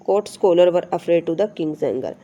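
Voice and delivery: slow, careful reading of the English text; slow textbook reading. Shown as a demonstration. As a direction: read each word out slowly for the class. Reads textbook sentence aloud. (धीमी, साफ़ पाठ्य-पुस्तक पढ़ाई)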